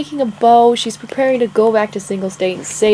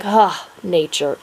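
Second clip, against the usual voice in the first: slow, contented breath of fresh air; relaxed sigh; 3 semitones lower, slower than usual. Acted. Cassie breathing in the pine needles, relaxed sigh. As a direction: breathe it out slowly, at ease. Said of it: "and relaxing".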